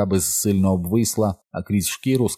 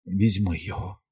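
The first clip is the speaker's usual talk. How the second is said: whispered; 6 dB quieter than usual. A narrator's reading. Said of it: "прошепотіла вона".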